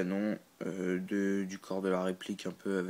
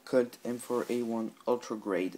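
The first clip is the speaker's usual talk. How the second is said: product name in a mock English accent; lightly put-on English accent for the brand name. Reading out the replica's name in a playful English accent. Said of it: "avec mon magnifique accent anglais".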